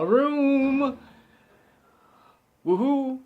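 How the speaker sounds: gleeful fan cheer; giddy boast ending in a whoop; excited whoop. Real, not acted. Gushing about bikini poster.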